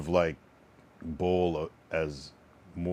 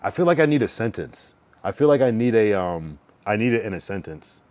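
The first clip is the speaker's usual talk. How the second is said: exasperated; 3 semitones higher, 6 dB louder than usual. Real, not acted. Excited, joking frustration.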